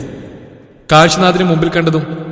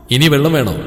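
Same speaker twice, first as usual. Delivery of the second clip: gently caring question; softened by pity; tender. A narrator's reading. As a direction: ask with mild compassion. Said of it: "അലിവോട് അവൻ ചോദിച്ചപ്പോൾ".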